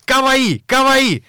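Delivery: high squealing kawaii chant; excited anime fan. Pretend. Mocking the song, shrieking. (восторженный визг анимешницы)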